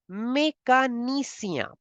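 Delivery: mécanicien with a clear é and nasal end; French mécanicien. Shown as a demonstration. Teacher models French mécanicien. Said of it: "You say".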